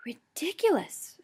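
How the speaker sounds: slow, whispered, breathless; breathless gasp. A narrator's reading. Hermione gasping the word in a whisper. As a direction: gasp it out with no air. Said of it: "Hermione gasped breathlessly".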